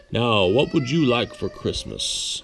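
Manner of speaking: Santa's voice. A narrator's reading. Santa asking the boy on his knee, slow and soft. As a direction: ask gently, like Santa on his sleigh.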